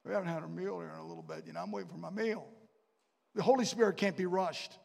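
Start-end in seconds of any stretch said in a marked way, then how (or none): 0.1-2.5 mock impatient diner. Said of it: "say to my wife".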